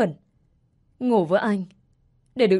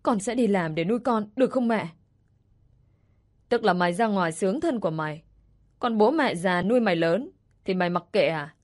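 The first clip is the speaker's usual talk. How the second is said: a hint of a scolding mother; angry mother. Mother scolding her daughter for leaving, mild anger.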